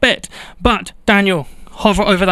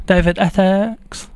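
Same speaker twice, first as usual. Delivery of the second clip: Essex accent; slower than usual. Shown as a demonstration. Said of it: "put his name in an Essex accent".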